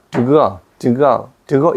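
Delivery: "to go" with the t softened almost to d; "to go" as "dugo"; flapped to go. Shown as a demonstration. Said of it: "to 발음이 잘 안 나와".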